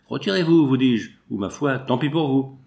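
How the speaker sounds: threatening order. Acted. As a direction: bark the threat, then settle. Armed man threatens an intruder.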